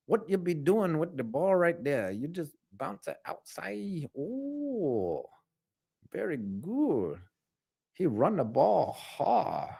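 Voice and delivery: soft, stretched mock Asian accent. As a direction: commentate softly in a caricatured Asian accent.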